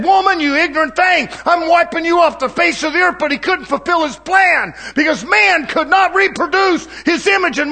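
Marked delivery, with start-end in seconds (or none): 0.0-3.2 upset God. Retold or imitated. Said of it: "he could have got upset and said".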